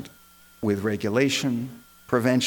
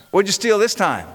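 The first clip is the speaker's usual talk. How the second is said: higher-pitched mock shout; mild imitated shout; 7 semitones higher, 4 dB louder than usual. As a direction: imitate a woman shouting, held back. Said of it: "And a woman shouts".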